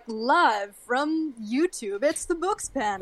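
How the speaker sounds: drawn-out show intro announcement; slow Saturday Night Live opener; TV intro announcer. Pretend. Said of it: "a Saturday Night Live intro".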